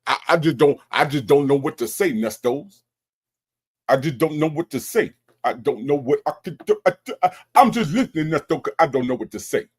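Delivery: lightly mimicking a nervous man stammering; mock scared. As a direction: make fun of his timid, halting excuses. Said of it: "you scared to open your mouth".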